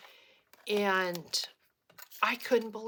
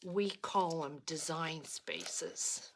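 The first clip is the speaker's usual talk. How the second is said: cowboy vendor's correction; 4 dB louder, slower than usual. Retold or imitated. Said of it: "He says".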